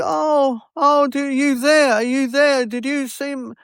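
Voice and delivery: high, breathless gushing over a singer; a high, mock-thrilled wife's voice; excited gush. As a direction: mimic an overjoyed fan on the phone. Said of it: "she said".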